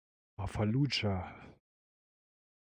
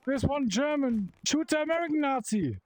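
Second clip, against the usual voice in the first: excited; 14 semitones higher than usual. Real, not acted. Urging shots during firefight.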